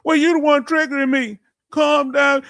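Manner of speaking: mock yelled retort. Streamer shouting back at chat in mock anger. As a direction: fire it back at them, half-joking.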